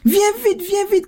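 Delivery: put-on high, urgent child's cry. A narrator's reading. Soaked daughter calls for her mother, crying out. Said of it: "cria maman".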